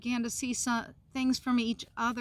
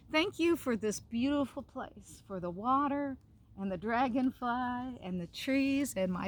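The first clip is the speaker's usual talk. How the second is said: prayer. Real, not acted. Leads children's prayer.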